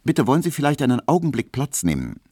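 calling across the shop, high and quick. A narrator's reading. Barber's assistant calls out to a waiting customer. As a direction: raise the voice to reach a customer, fast. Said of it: "so rief er".

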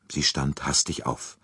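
plain reading voice

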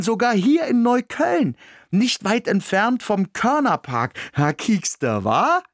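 high, grinning and cocky; smug grin. A narrator's reading. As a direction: show off with a broad grin. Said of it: "Jetzt musste ich noch mehr grinsen".

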